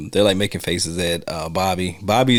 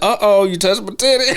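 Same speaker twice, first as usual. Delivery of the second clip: mock scandalised woman; 11 semitones higher, 3 dB louder than usual. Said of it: "she's like".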